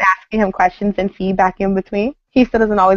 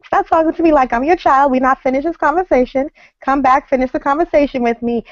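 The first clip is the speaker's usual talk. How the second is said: retold argument; 6 semitones higher than usual. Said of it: "And I'm like".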